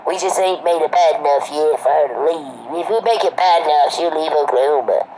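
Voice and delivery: imitated hillbilly accent, drawn into mockery. Calvin telling everybody who will listen, mock hillbilly accent. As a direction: put on a hillbilly voice to mock him. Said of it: "Are you the one that talks like that?".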